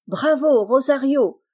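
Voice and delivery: high, loud cheer; exclaiming bravo. A narrator's reading. Little girl cheering the elephant after the candle. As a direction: cry out in delight while clapping. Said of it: "s'écrie Aurélie".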